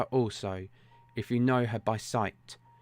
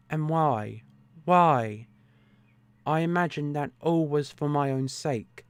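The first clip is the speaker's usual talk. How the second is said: lightly voiced desperate woman, bitter and rising; a betrayed wife pouring it all out, a touch louder; 3 semitones higher, 3 dB louder than usual.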